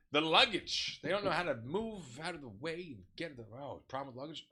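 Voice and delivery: loud, high diva grumble; hammed-up fussy complaint; exasperated complaint. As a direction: imitate a passenger griping theatrically. Acted passenger complaining about luggage.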